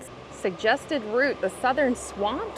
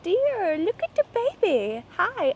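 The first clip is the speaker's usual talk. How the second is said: animal-greeting voice; 8 semitones higher, slower than usual. Real, not acted. Vlogger spotting the white-tailed deer, high cooing animal voice. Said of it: "I apologize for my animal voice".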